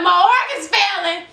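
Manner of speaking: high-pitched incredulous echo; retold shock. Niece hearing bad news from auntie, retold shock. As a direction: shoot the question back way up high.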